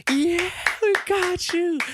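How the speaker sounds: high, slow gloating cheer; mock cheering. Radio crew cheering over their prank, high and gloating. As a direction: crow it like you pulled off the prank.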